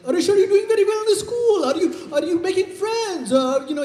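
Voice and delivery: high, quick cartoon Indian accent; Apu accent. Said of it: "Does your dad speak like Apu?".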